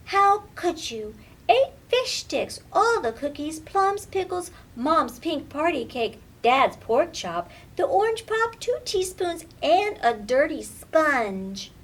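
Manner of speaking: put-on a girl scolding her pet item by item; outraged list. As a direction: pile up each item in disbelief. Lily lists what kitty ate.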